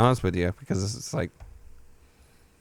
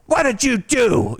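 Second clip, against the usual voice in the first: retold scream; 10 semitones higher than usual. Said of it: "and I'm screaming".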